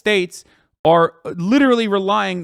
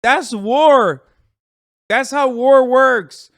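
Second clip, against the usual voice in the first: scoffing retort; 5 semitones higher, 4 dB louder than usual. Real, not acted. Scoffing at a naive chat question.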